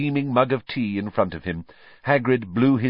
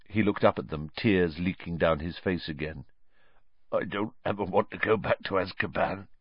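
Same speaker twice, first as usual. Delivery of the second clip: quiet Hagrid; 2 semitones higher than usual. Acted. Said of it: "Then he said quietly".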